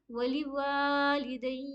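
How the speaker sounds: slow, वालिदैया with a clipped unstretched या; short या. Shown as a demonstration. Teacher showing the correct unstretched या. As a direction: say वालिदैया slowly, don't hold the या. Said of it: "या को हम बिना खींचे पढ़ेंगे".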